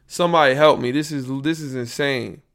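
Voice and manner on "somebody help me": yelling at the meter. Real, not acted. Podcaster shouting at his recording levels, loud. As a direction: bark orders at the falling volume. Pleading loudly over the audio trouble.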